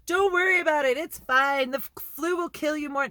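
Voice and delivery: high, loud brush-off voice mocking the denialists; dismissive mock reassurance. Mocking people who say don't worry, breezy dismissive. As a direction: wave it away like it's nothing. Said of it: "everyone's like".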